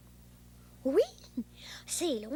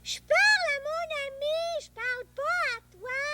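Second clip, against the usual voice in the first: irritated retort; 11 semitones higher, 5 dB louder than usual. Real, not acted. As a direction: snap back at the grown-up. Boy answers parent, irritated.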